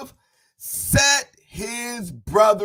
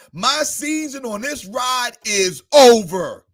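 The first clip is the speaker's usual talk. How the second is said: building declaration; 2 semitones higher, 4 dB louder than usual. Acted. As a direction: grow from a weary sigh to a triumphant cry. Voiced declaration in sermon.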